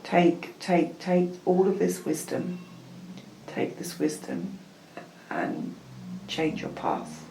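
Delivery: measured spiritual invocation with spaced phrases; channelled guidance. Acted. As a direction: guide them solemnly, pausing between phrases.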